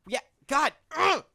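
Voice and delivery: loud, high, laughing protest; anger turning to laughter. Real, not acted. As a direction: yell at them to stop while cracking up. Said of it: "Don't laugh. Stop laughing".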